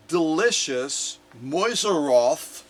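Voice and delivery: Mäuseroth drawn out slowly, German-style vowels, rising; sounding out Mäuseroth slowly, unsure of the German; careful German word. Shown as a demonstration. Sounding out the chocolate brand Mäuseroth for viewers, slowly. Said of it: "I think I'm saying that right".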